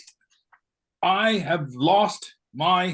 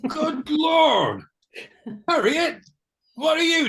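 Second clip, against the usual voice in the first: shocked exclamation; 9 semitones higher, 3 dB louder than usual. Acted. Husband shocked to see wife.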